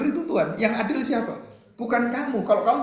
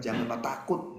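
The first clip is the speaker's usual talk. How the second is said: much softer "Janganlah takut", rising gently; soft reassurance; 6 semitones lower, 8 dB quieter than usual. Shown as a demonstration. Preacher quietly repeating Yusuf's comfort to listeners. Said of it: "Ini katakan".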